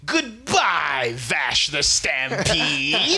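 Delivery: slow, drawn-out gloating goodbye; hammed-up villain farewell. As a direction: savour every word like a smug villain. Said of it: "she's like".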